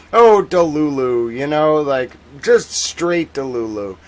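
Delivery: ironic zoomer. Pretend. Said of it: "start speaking like a Gen Zer".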